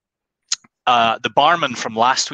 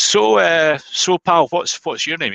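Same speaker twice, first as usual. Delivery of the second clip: put-on higher-pitched Glaswegian barman accent, friendly; 7 semitones higher, 3 dB louder than usual. Barman asking the duck's name, Glaswegian accent. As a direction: chat up the customer in a Glaswegian accent. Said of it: "He's Glaswegian".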